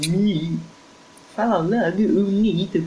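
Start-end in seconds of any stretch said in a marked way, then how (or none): 1.4-2.8 higher eager curious voice; pushy, impatient curiosity. A narrator's reading.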